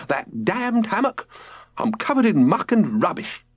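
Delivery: lightly irritated father cursing; annoyed. A narrator's reading.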